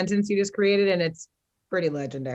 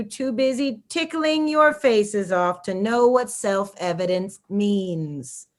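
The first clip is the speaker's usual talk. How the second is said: annoying voice. Pretend. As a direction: read it like an annoying, pompous manifesto. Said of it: "read it in this annoying voice".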